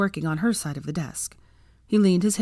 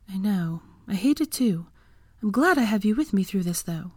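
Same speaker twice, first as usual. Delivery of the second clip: lightly voiced higher woman character, sympathetic; Hermione; 4 semitones higher than usual. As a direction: share the feeling in a slightly raised character voice. Hermione consoles Draco.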